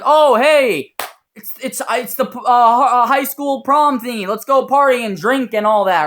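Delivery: high, loud, hyped-up party invite; excited friend. Retold or imitated. Friend invites him to a high school prom party, excited.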